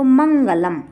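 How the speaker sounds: मंगलम with nasal n before g, closing on m; n inside, m at end. Shown as a demonstration. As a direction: sound out मंगलम as "mangalam". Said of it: "इसका उच्चारण हम मा करेंगे". (मंगलम, बीच में न और अंत में म)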